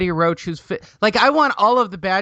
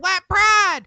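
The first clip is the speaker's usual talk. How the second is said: put-on "white pride" yelled much higher and louder in a Southern redneck accent; 10 semitones higher, 6 dB louder than usual. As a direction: whoop it out like a rowdy Southern fan, Southern accent. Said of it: "my crazy Southern white pride".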